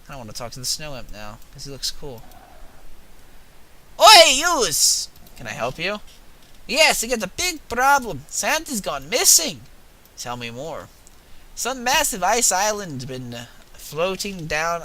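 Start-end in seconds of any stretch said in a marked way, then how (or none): 4.0-5.1 shrill-free high loud imp hail, much higher and louder; snow imp accent. Acted. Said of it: "I don't know what kind of accent". 6.7-9.6 put-on higher, slowed imp voice with a vague accent; snow imp accent. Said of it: "I don't know what kind of accent". 11.5-14.8 put-on higher, slow imp voice, groping for an accent; first try at the imp, unsure of the accent; snow imp accent. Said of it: "I don't know what kind of accent".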